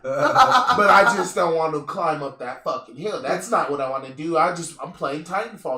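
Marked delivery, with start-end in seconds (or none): 0.0-3.2 slower, laughing confession. Real, not acted. Confessing to friends he skipped the hill, laughing. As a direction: laugh through the admission.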